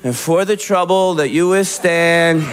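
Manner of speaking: dutiful, rote apology like a pledge; mumbled pledge. Retold or imitated. Married friend apologizing to his wife like a child. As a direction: recite it like the Pledge of Allegiance. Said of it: "he's just like".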